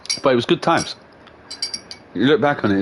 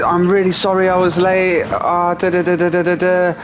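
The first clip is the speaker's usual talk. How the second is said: higher-pitched, cheerful apology; smiley, happy driver; 8 semitones higher than usual. Retold or imitated. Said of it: "really smiley and happy".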